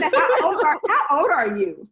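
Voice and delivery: put-on loud, high, laughing how old are you; repeating her line, loud and laughing; loud quoted question. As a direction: blurt it out loud through a laugh. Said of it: "She said".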